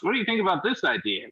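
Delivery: high, fast, whimpering employee; whiny to the boss. Retold or imitated. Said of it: "me talking to my boss".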